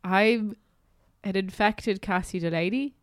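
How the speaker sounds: nasal sick voice; blocked nose. Real, not acted. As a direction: talk through a blocked nose. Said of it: "That is the nasal voice".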